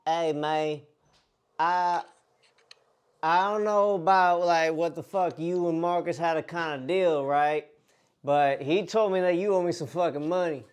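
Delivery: lightly put-on country bumpkin accent. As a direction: play a country bumpkin demanding money. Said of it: "The, the country bumpkin".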